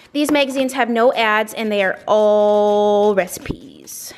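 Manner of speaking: slow, secretive whisper. Real, not acted. Confiding aside about favorite magazines.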